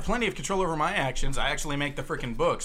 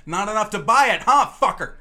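snarky wife jab; 6 semitones higher, 10 dB louder than usual. Retold or imitated. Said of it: "my wife leaned over and said".

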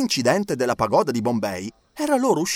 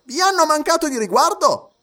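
judge asking; 13 semitones higher, 5 dB louder than usual. A narrator's reading. Judge questions Fogg.

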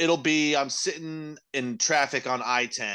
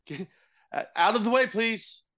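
high, singsong mock-polite warning; polite talking siren; 9 semitones higher than usual. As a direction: ask sweetly as a pretend siren. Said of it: "just have a siren that's like".

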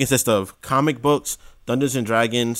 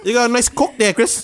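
high mock seductive voice; 9 semitones higher than usual.

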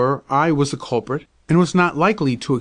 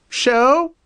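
very high, louder squawk, rising; screaming magpie; 11 semitones higher, 3 dB louder than usual. Acted. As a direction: shriek it like an angry bird. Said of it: "screamed the bird".

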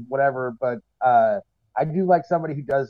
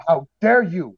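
imitating offended comics; mock indignation; 4 dB louder, slower than usual. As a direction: play at being affronted. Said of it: "It was like that".

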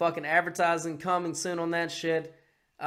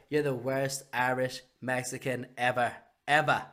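lightly voiced, lower political put-down; a hint of Trump, pitched down; Trump impression; 4 semitones lower than usual. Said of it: "Ah, it's Trump".

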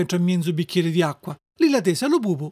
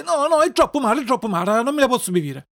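high-voiced child refusing; whiny reluctant puppet; 5 semitones higher than usual. Puppet refusing the fairy's bitter medicine, whining. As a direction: whine in protest, starting high.

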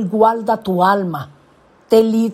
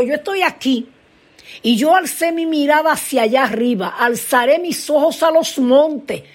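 raised, high-pitched declaring voice; psalmist's cry; 6 semitones higher than usual. Acted. Psalmist looks up to the mountains, high impassioned declaration. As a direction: declare it high, as if calling upward. Acts out psalmist looking up for help.

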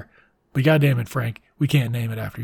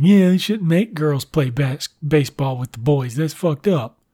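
mock whine. Little Bill whining to his parents about girls, light mock whine. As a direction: play a sulky little boy complaining, half-hearted. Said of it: "And Little Bill whines".

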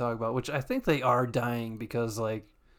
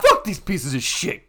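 louder, laughing through the curse; 4 semitones higher, 9 dB louder, slower than usual. Real, not acted. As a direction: laugh while you swear. Laughing while cursing.

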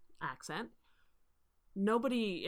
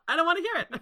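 higher, louder fed-up teacher dismissal; mock exasperated teacher; 12 semitones higher, 11 dB louder, much faster than usual. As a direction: brush the student off like a teacher who's had enough. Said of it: "all of his".

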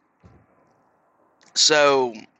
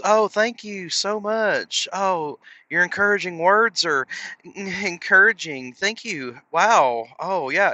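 higher, gushing, hammed-up gratitude; mock gushing thanks; 6 semitones higher than usual. New dieter thanking a friend for kind words, gushing. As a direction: overdo the flattered thank-you.

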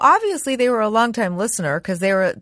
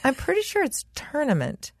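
soft, polite "I'm pretty sure"; a mild, tactful nudge; gentle correction; 5 semitones higher, 6 dB quieter than usual. Retold or imitated. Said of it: "more mad than I would if you said".

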